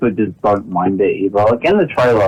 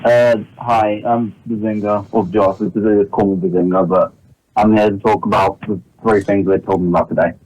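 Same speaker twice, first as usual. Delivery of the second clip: muffled. Real, not acted. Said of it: "sorry if his audio sounds kind of muffled".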